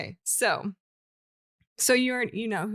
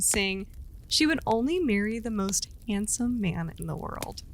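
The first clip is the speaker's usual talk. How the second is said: steady storyteller voice reading a legend; storytelling narration. A narrator's reading. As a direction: tell it like a campfire legend. Reads folk tale aloud.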